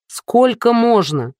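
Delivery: slow, exasperated rebuke; barked. A narrator's reading. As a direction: scold a partner, fed up. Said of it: "рявкнула Дуся".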